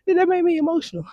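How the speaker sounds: high-pitched, laughing disbelief at herself; baffled at herself. Retold or imitated. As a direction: squeak it out, half laughing, puzzled at her own tears. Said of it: "I'm like".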